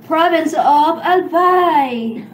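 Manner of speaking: slow, laughing over-formal English. Real, not acted. Host answers the English question with a laugh. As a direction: drawl it out through a laugh.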